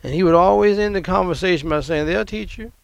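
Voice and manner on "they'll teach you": very calmly. Retold or imitated. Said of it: "very calmly".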